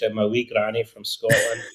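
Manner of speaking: light mock Scottish granny accent, laughing; a playful stab at a Scottish accent. Guest jokingly switches to a Scottish accent, lightly hammed. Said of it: "switch it to Scottish".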